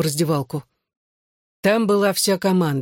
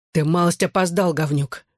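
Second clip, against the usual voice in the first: usual speaking voice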